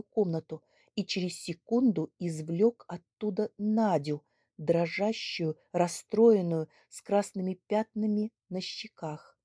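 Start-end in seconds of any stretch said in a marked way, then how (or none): none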